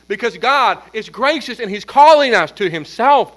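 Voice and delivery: loud, insistent sermon delivery; urgent preaching. Real, not acted. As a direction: press the call home with punched key words. Preaches at full force.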